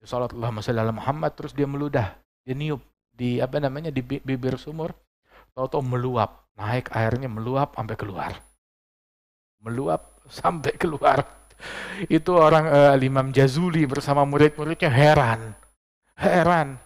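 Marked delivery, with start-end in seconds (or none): none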